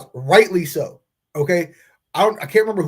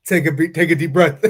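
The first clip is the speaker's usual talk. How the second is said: laughing. Real, not acted. Laughing while calming cohost.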